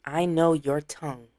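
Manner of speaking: fighting a gag, slowed; choking back a gag mid-sentence; gagging. Real, not acted. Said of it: "say it without gagging".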